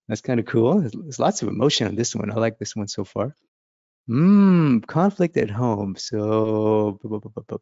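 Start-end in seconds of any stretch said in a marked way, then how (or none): none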